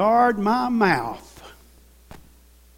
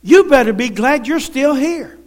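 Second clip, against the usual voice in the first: voice of God; 5 semitones higher, 4 dB louder than usual. Retold or imitated. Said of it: "God says".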